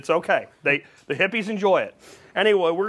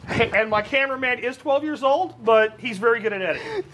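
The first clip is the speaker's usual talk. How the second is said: laughing; 5 semitones higher than usual. Real, not acted. Host laughing at own flubs.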